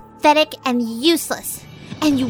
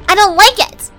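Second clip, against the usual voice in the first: high frightened whine; 8 semitones higher, 7 dB louder, faster than usual. Acted. Demon recoils from magic.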